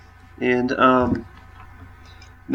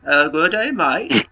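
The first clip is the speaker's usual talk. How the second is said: mock Australian; slower than usual. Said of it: "now going to be portraying Australian".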